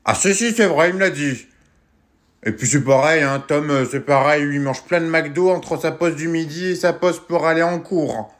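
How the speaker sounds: put-on loud kid yelling to mum in the next room; shouting across the house. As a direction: call out loud to someone far away. Kid shouting to mother in another room.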